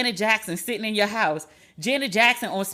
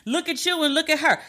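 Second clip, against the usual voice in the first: pitched higher, quick and disbelieving; incredulous jab; 6 semitones higher than usual. Retold or imitated. Mocking the ex to the podcast listeners, higher and disbelieving. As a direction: toss it off higher, like you can't believe it. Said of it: "'Cause I was like".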